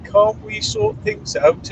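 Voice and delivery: very high, slow wheedling voice; very high slow mocking imitation of a pleading person; whiny pleading mimic. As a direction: squeak it out like a pleading whinger. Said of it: "and they said".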